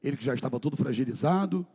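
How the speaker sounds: low, soft, grave retelling; hushed story narration. A narrator's reading. Pastor narrating the scourging of Jesus, low and hushed. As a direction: let the horror sink in quietly.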